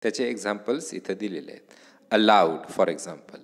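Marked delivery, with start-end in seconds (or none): 2.1-2.7 "Allowed" with weak A and strong LOWED; stress on the root. Shown as a demonstration. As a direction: punch LOWED in "Allowed", falling. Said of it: "the word is stressed on the root".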